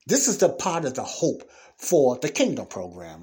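kingdom program leaned on with extra weight; emphatic kingdom program; stress on kingdom program. Real, not acted. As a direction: punch kingdom program home to the congregation. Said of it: "I'm putting emphasis on kingdom program".

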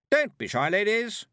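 high, loud coaxing; over-bright hostess under pressure; strained cheer. A narrator's reading. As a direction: coax them with mounting strain. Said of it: "was getting more strained by the second".

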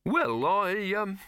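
stumble, trying to get a word in; hesitant stammer. A narrator's reading. Silverfish stammers.

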